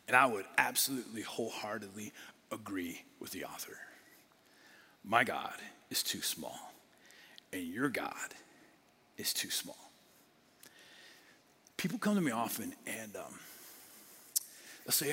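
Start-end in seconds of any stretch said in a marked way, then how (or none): 5.0-9.9 slow, soft words that sink to a whisper; hushed confession. Real, not acted. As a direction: let it fall to a whisper, humbly. Pastor confesses his small God.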